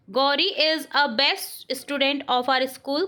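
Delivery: very slow, word by word dictation. Shown as a demonstration. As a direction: read it out slowly for the class to write. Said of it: "teacher dictates sentence". (धीमे-धीमे बोलकर लिखवाना)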